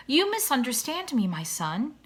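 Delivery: gentle, reassuring father swan; a light touch of fatherly comfort. Acted. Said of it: "he said in a comforting voice".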